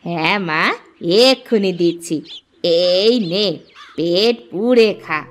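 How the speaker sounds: low, doting tone; tender and low, unhurried at the end; indulgent mother. Acted. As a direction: coo to a favourite child, pitched low. Mother indulges her own child.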